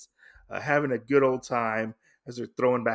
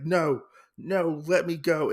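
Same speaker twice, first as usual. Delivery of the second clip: high, louder pleading cry; struggling sister; 5 semitones higher, 3 dB louder, slower than usual. Retold or imitated. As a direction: pull free, desperate. Sister struggling against brother.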